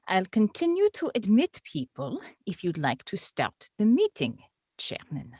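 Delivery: lightly put-on Russian accent as the clerk; a deliberately bad Russian accent, only hinted at. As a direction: clerk addressing the chairman in a faint mock Russian accent. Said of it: "what we are doing on purpose is bad Russian accents".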